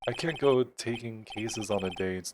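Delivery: lightly voiced stuffy lawyer; pompous old lawyer. Grossberg refusing a case on short notice, stuffy. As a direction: fob them off with mild pomposity.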